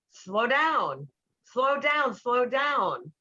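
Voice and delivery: bossy nagging repeated at him; controlling, directing. Retold or imitated. To her speeding boyfriend, a controlling directing tone. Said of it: "in a controlling, directing way".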